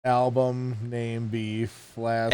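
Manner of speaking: put-on slow, quiet old man voice; creaky grandpa giving advice. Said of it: "gonna be hard to do an old man voice".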